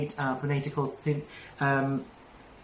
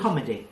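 "คอมเมดี้" with a falling, light finish; unstressed ending; 2 semitones lower, faster than usual. Shown as a demonstration. Teacher repeats the model for student, "คอมเมดี้" ending unstressed. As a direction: stress the start of "คอมเมดี้" and let it drop. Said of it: "แค่ไม่สเตรสมัน".

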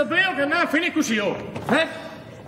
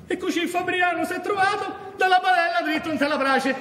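town crier. Acted. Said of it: "c'ho da entrare nel personaggio".

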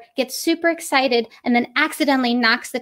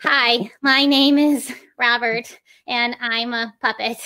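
mock stilted puppet intro. Shown as a demonstration. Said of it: "they move the head with every single syllable".

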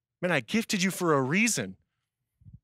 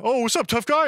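loud, high mocking jeer; mock tough-guy taunt; 8 semitones higher, 5 dB louder than usual. Friends taunting from across street.

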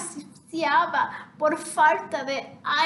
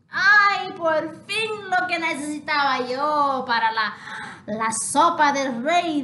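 loud, pleased cook's cry; gleeful cook; 5 dB louder than usual. Acted. King's cook grabs the chick for the soup, loud and gleeful. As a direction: crow over the catch.

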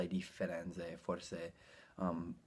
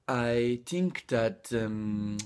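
slow, higher, hesitant Italian-accented English; 4 semitones higher, 5 dB louder, much slower than usual. Shown as a demonstration. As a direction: imitate an Italian groping for English words. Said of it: "l'accento di un italiano che parla inglese".

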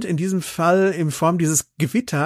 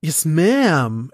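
trying nasal Paris imitation. Shown as a demonstration. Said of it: "mehr durch die Nase atmen".

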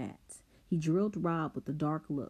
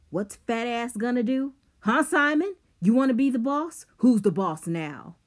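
much higher, loud mocking shout; taunting yell; 8 semitones higher, 10 dB louder than usual. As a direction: jeer at him, getting louder. Rob taunting Simon with bat.

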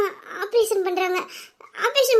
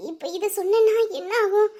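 softer, hushed worry to herself; worried aside; 5 dB quieter than usual. Acted. An older sister fretting silently about telling the patient. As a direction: murmur the fear inwardly.

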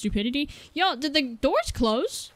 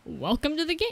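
greeting jump scare; 4 semitones higher, 3 dB quieter than usual. Retold or imitated. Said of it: "that jump scare was just, like, an extra, like".

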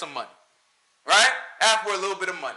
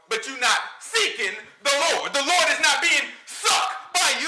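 mock preacher. Parodying a pastor preaching to the congregation, rising to a shout. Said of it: "Why are you talking like that on stage?".

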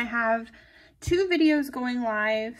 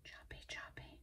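choppy choppy in a soft voiceless whisper; 26 dB quieter than usual. Real, not acted. Crafter whispering choppy choppy to herself while snipping. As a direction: breathe the words out, barely there. Cutting stickers, said twice.

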